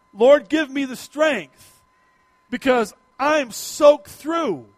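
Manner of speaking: slow, tired plea for strength; weary mock prayer. Exhausted hunter asking God for strength, slow weary prayer. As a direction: drag it out like you're spent. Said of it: "And I'm praying".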